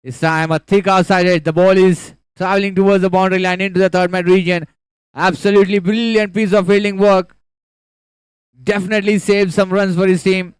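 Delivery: loud, rising play-by-play; excited cricket commentary. Real, not acted. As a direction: call the fielding with building excitement. Boundary-saving fielding, commentator lifts.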